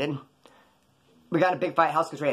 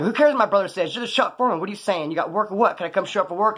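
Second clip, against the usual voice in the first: higher, insistent retold challenge to the foreman; pushy demand; 4 semitones higher than usual. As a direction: press him for work, pitched up and impatient. Retold pressing the shop foreman.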